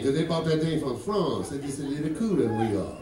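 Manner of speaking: put-on cool, low Cajun accent; put-on Cajun swamp-dweller accent; Louisiana French accent. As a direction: lay on a French-tinged Louisiana lilt. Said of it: "Louisiana got the French thing".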